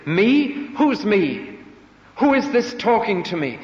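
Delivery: high, loud, startled questions; bewildered Paul. Acted. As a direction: cry out in confused disbelief.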